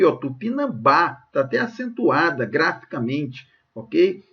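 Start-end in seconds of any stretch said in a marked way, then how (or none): 0.2-1.2 "Tupinambá" with the last syllable BÁ set apart; final-syllable stress. Shown as a demonstration. Teacher showing students the tonic syllable, "Tupinambá" stressed on final BÁ. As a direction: land firmly on BÁ in "Tupinambá". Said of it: "a sílaba tônica tá aqui".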